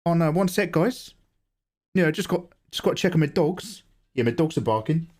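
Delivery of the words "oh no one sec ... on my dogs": put-on higher Kiwi accent. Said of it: "Ten out of ten Kiwi".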